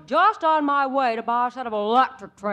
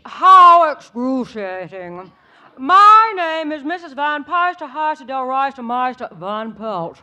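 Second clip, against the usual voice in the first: haughty society matron; 4 dB louder than usual. Acted. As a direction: play the snooty rich dowager.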